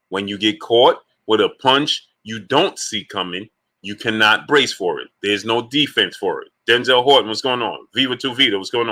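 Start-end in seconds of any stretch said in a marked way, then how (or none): 0.1-5.1 deliberate, phrase by phrase with pauses; slower. Shown as a demonstration. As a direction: lay it out slowly and patiently. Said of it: "Let me do it slower".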